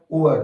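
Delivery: उअर as OO gliding into UR; teacher sounding out उअर as OO-ur; diphthong demonstration. Shown as a demonstration. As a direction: model उअर, OO sliding into a schwa and R. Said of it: "क्या बन गया?".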